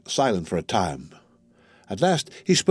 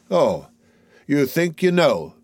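higher, slow scorn; scornful; 5 semitones higher, slower than usual. Acted. Loud soldier mocking the tall soldier, slow and scornful. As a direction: sneer it out slowly. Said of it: "began the loud soldier with scorn".

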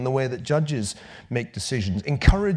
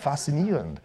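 mock German. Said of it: "It's like".

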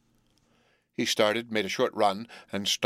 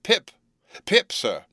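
put-on louder, high frightened boy's call; giving it mouth; 10 semitones higher, 4 dB louder, slower than usual. A narrator's reading. Boy repeats his name louder for the convict, anxious shout. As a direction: call the name out on demand, pitch leaping. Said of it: "Give it mouth".

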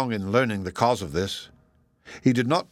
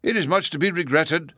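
mild; 7 semitones higher than usual. A narrator's reading. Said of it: "the professor mildly replied".

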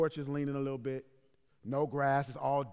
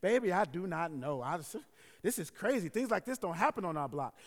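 put-on old lady voice; 4 dB louder than usual. Old neighbor to pastor about the shooting, old lady voice. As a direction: put on a hint of elderly neighbor. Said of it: "so it's my old lady voice".

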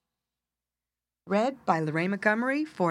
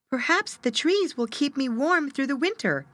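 little bird voice; 8 semitones higher than usual. Acted.

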